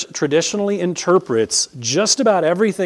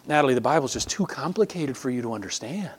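condescending priest; 8 dB quieter than usual. Retold or imitated. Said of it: "look at you with a straight face and say".

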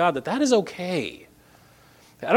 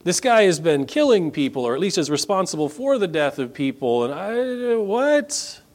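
alarmed Ananias; 4 semitones higher than usual. Acted. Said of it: "Ananias who's got some questions".

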